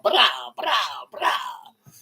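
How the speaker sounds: a sudden high shout of brah; calling out. Real, not acted. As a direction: yell it, then let it drop to breath. Calling out to the viewers.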